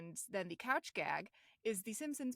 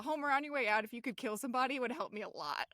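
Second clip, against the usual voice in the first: casual villain quote; 4 semitones higher, faster than usual. Retold or imitated. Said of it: "so nonchalant".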